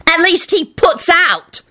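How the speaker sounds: high, slow spiteful screech. A narrator's reading. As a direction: drag out the insult. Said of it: "Rosie screeched".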